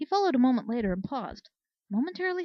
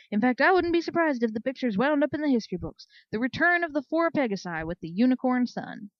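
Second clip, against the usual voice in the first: louder, booming mock-hearty delivery; gleeful teasing; 2 semitones higher, 8 dB louder than usual. Commander teasing Flare that she must wear the saddle, louder and gleeful. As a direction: savour her comeuppance out loud.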